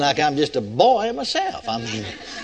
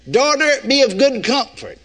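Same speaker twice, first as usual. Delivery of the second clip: mock misquote; 3 semitones higher than usual. Shown as a demonstration. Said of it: "No, that wouldn't be enough".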